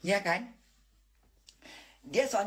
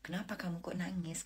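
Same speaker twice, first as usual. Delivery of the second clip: softly voiced imitation of a concerned husband; gentle retold concern; 8 dB quieter than usual. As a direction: ask it quietly, as he did. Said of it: "Dia langsung bilang sama Bunda gini".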